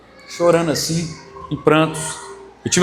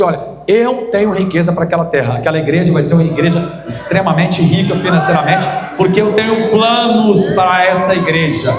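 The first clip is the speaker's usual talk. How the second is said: a pastor booming God's promise. Retold or imitated. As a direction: declare it with full force. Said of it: "E Deus falou assim".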